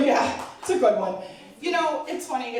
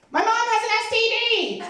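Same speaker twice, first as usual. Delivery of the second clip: much higher shouted outburst; sudden outburst yell; 14 semitones higher, 4 dB louder, faster than usual. Retold or imitated. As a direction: blurt it out at the top of your voice. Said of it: "she's like".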